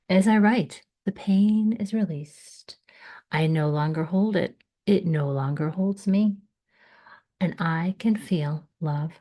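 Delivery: measured, earnest poetry reading with pauses; lightly heightened spoken-word delivery; poem recitation. Acted. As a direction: read your own poem aloud, pausing between phrases. Reads own poem aloud.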